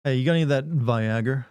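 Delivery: "Viagra" said vy-AG-er; hard-R pronunciation. Shown as a demonstration. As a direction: end "Viagra" on a hard Southern -er. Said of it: "I know you're a southerner".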